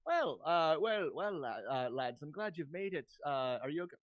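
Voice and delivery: put-on lightly Irish-accented mayor; halting attempt that slips into Irish; hesitant greeting with an Irish lilt. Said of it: "I'm going Irish again".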